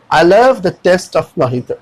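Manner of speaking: slow example sentence, mojito said "mo-hee-to"; model pronunciation. Shown as a demonstration. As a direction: demonstrate mojito with an h sound, slowly. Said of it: "लेकिन पढ़ेंगे मोहितो". (धीरे से, mojito को मोहितो बोलकर)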